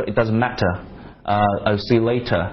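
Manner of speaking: matter and later with sharp clear t; crisp British t. Shown as a demonstration. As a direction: exaggerate every t, British style. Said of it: "把那个T要稍微夸张一点".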